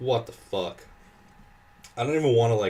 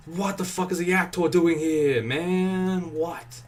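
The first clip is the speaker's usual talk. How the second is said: outraged shout, pitched way up and louder; angry yell; 9 semitones higher, 4 dB louder, slower than usual. Real, not acted. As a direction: yell in real disbelief at the game. Boss fight going wrong.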